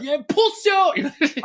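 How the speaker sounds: high, drawn-out taunting call; mock triumphant taunt. Fare dodger to departing inspector, high mock taunt. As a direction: crow it after someone walking away.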